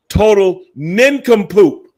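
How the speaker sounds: high, slow goofy voice for nincompoop; slow silly voice for the fool; mock dumb guy voice. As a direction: ham up sounding like a fool. Mocking what he didn't sound like.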